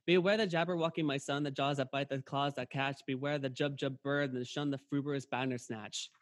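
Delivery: rattled off in a long unbroken run; mock a caller who talks till out of breath; breathless monologue. Caller reeling off a script at a patient, breathless monologue. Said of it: "like you're out of breath".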